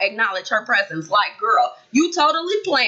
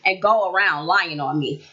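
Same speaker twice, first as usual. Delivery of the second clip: low, measured and calm, no raised voice; 4 semitones lower than usual. Shown as a demonstration. Vlogger shows how Kristen should calmly confront her sister, low and even. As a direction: say it steady, like you're keeping your cool. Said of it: "You could say it as calmly as possible".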